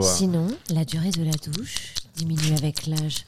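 phone sex voice. Acted. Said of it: "je te fais téléphone".

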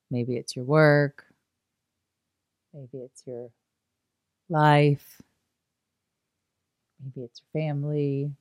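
slow, spaced-out prompts with drawn-out key words; guided meditation. Acted. Teacher inviting listeners to think of work, family, yoga, guided meditation. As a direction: guide them along, leaving long pauses.

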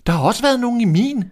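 high, loud, fast cry; the dwarfs all call out at once, high and fast; shouting dwarfs. A narrator's reading. Dwarfs shouting together about their beds, high and loud. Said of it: "råbte de alle sammen".

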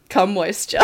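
"Come moisture" as plain English words; deadpan "Come moisture" in place of Spanish; teasing mispronunciation. Pretend. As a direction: tease with an anglicised "Come moisture". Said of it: "You know what I'm gonna be saying".

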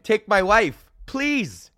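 a light take on Henny Youngman, the "please" popped up high; Henny Youngman one-liner. Retold or imitated. Comic quoting Henny Youngman's classic joke, lightly voiced. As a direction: deliver the old one-liner with a lifted punch word. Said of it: "Oh, Henny Youngman".

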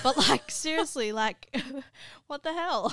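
laughing through exasperation. Real, not acted. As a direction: say it while laughing.

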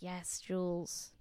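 egging Jules on at the TV; cheering her on. Retold or imitated. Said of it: "And I was like".

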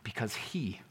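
because he dropped low and quiet; soft because he. Shown as a demonstration. Preacher giving the right answer, hushed. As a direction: let because he fall away gently. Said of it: "begins in the third person".

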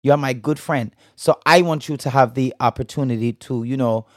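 amateur attempt at a Bajan accent. Shown as a demonstration. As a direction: put on a singer's Bajan accent, a bit haltingly. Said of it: "do a little Bajan accent".

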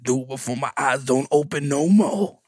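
lightly voiced mama repeating herself; a touch of the old mother, plainer volume. Mama repeating her morbid request, lightly voiced. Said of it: "She said".

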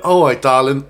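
hammed-up English endearment; bad English accent. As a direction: put on a clumsy English accent. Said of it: "tried to do an English accent".

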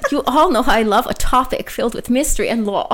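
lightly put-on German accent; a hint of comic German caterpillar; touch of Hans and Franz German. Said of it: "you kinda sound like that guy from A Bug's Life".

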